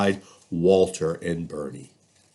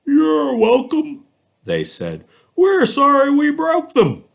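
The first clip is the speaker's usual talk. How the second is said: apologetic animals; 6 dB louder than usual. Acted. Animals apologising to Walter for the toys, high and loud. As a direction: say sorry and mean it.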